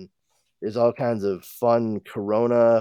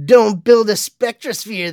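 mock scolding voice; 12 semitones higher, 9 dB louder than usual. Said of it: "they said".

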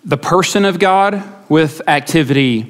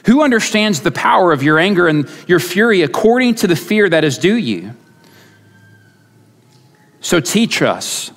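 measured, solemn psalm reading; lifted pulpit reading of the psalm; scripture reading. Acted. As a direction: read the psalm with reverence. Reads psalm verses aloud.

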